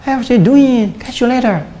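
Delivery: high-pitched imitation of an English speaker; native English accent. Shown as a demonstration. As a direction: toss off greetings like an English native. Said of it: "Bahasa Inggris kayak orang Inggris". (logat orang Inggris bernada tinggi)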